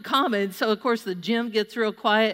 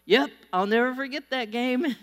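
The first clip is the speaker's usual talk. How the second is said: coach voice; 4 semitones higher than usual. Retold or imitated. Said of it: "he goes".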